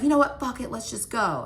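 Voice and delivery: imitated exasperation, high and loud at the start; retold fed-up outburst. Drunk boyfriend ending a bar argument, mock fed-up outburst. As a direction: throw up the argument, starting high then easing.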